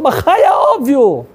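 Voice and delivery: high, impassioned exclamation; acted boy's fervent assurance; emphatic yes. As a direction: burst out high, as if it's beyond question. Retold boy answers neighbour emphatically.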